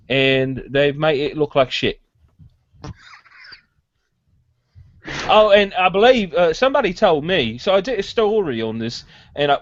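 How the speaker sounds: strained British bloke voice; Nick Frost impression. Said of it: "you sound like constipated Nick Frost".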